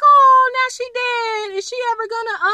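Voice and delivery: a hint of playful disbelief; mock dismay. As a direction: gasp it out as if stunned by the death. Mock dismay over dead realtor.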